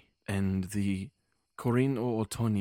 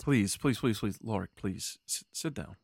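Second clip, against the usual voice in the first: calming plea. Acted. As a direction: settle him down gently. Calming Lorik down.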